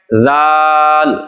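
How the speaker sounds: ذال drawn out very slowly, soft and thin; ذال stretched slowly with a soft thin sound; soft zal. Shown as a demonstration. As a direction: model ذال gently, held long. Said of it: "نرمی کے ساتھ".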